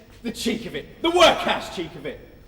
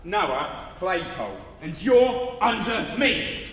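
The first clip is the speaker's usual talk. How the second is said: pompous; 3 semitones lower, slower than usual. Acted. Boasting his importance slowly.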